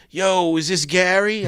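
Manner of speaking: high, slow tough-guy greeting; impression of a singer. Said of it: "He's like".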